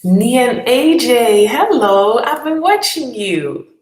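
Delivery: hammed-up spooky fan greeting; mock creepy stalker. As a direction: drag it out like a playful creep.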